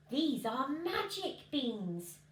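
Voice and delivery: slow, hushed mystery; mysterious. Acted. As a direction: savour the words slowly like a secret. Slow mysterious sales line.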